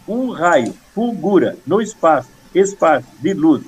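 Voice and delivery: short, separated rhythmic phrases of a memorised poem; chant-like scansion, pausing after every foot; two-syllable verse recitation. Shown as a demonstration. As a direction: recite in tiny two-syllable beats, each falling. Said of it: "com duas sílabas".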